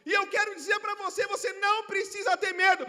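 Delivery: loud, ringing, shouted preaching; preaching at full force. Real, not acted. Pastor telling the church not to fear, shouting with fervor. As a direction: drive it home to the congregation. Sermon climax.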